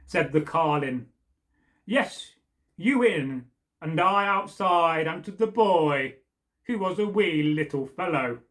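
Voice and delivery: lively read-aloud storytelling; storyteller voicing carlin and boy; story narration. A narrator's reading. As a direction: tell the folk tale to listeners. Reads version B of tale.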